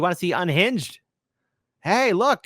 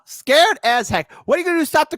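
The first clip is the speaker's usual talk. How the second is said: mocking repeat; 10 semitones higher, 6 dB louder than usual. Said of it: "Uh-huh. mocking repeat".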